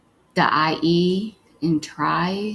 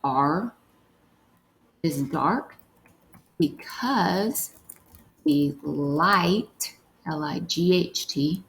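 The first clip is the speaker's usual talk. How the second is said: word-by-word dictation; slower than usual. Shown as a demonstration. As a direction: dictate piece by piece with spelling. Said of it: "The last one we're gonna write is".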